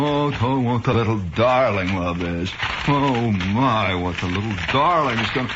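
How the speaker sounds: lightly voiced Westchester-jaw dandy; affected Westchester jaw, doting on a darling; Westchester lockjaw, Harvard accent. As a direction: coo fondly with a slight Harvard accent. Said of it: "a little slight Harvard accent".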